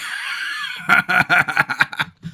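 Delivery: high, rattling burst of laughter; hearty laugh. Real, not acted. Laughing at a viewer's worry about bad English, hearty laugh. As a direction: burst out in a long, high cackle.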